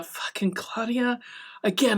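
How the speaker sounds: an awed whisper of her name; whispered aside. Real, not acted. She gushes to her viewers about her favourite character in a whisper. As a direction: breathe it out like a secret.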